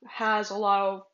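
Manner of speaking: talking with food in mouth; words round a bite of food; mouth full. Real, not acted. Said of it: "sorry, I had something in my mouth".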